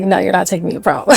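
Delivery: laughing refusal. Retold or imitated. Defying godfather, laughing.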